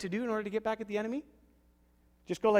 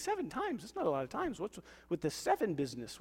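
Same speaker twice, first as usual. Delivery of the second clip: mock scoff; 5 dB quieter than usual. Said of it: "He thinks".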